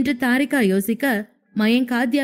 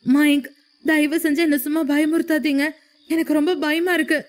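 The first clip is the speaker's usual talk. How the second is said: higher, tearful pleading in the dark; crying plea; 4 semitones higher than usual. A narrator's reading. Frightened wife in the dark begs her husband, crying. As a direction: beg him through tears to stop scaring her. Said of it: "மீண்டும் ஒருமுறை அழ ஆரம்பித்த தாரிகா".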